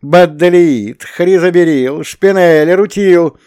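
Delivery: high, loud enthusiastic listing of gems; ecstatic exclaiming. A narrator's reading. Shura shows Belsky the crystals, loud, high and thrilled. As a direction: gush over every crystal like a kid. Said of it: "воинственно воскликнул Шура".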